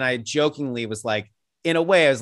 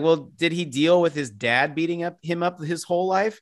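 mock skeptic; 5 semitones higher than usual. Mocking skeptical reply.

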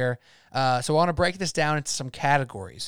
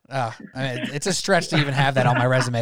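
normal talking voice

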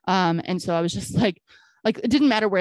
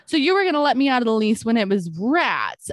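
indignant excuse me; 3 semitones higher than usual. Retold or imitated. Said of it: "and I'm just like".

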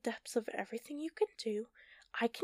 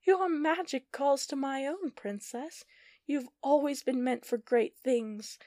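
high, loud villain shout; 5 semitones higher, 7 dB louder than usual. Acted. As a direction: call out over the storm. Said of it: "Giovanna shouted".

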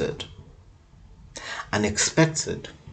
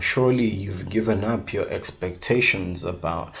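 fast; faster than usual. Real, not acted. Quick wrap-up aside.

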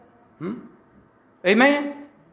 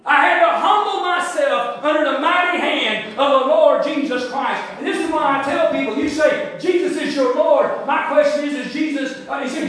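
forceful preaching; 5 semitones higher, 3 dB louder than usual. Real, not acted.

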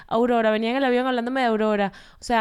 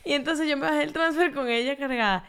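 laughing through words; 3 semitones higher than usual. Real, not acted. Retelling airport mishap, laughing.

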